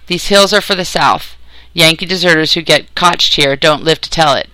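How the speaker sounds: lightly voiced stern mountain woman; stern country granny. Granny warns the Yankee deserter, mildly stern country voice. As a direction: scold with a touch of country sternness.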